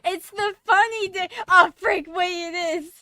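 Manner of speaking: high, loud burst of realization; excited realization. Real, not acted. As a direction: blurt it out as it hits you. Streamer realizes it's a special day.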